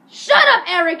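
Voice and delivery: very high, loud mock scream; hammed-up exasperated shriek; retold teacher's yell. Teacher silences repetitive Eric, high mock scream.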